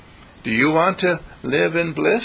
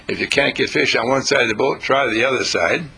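a lower, unsure mock version of the advice, trailing; hesitant, doubtful; 3 semitones lower than usual. Shown as a demonstration. Preacher mocking a timid version of Jesus's advice, low and hesitant. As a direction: say it as if you're not sure it will work. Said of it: "Now, he didn't say".

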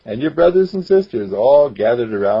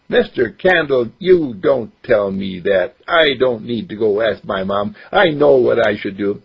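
put-on boy voice. Mark argues.

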